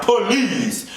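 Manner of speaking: exasperated, drawn-out "please". Real, not acted. Telling a TV star to sit down, exasperated drawn-out please. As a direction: stretch PLEASE into two syllables.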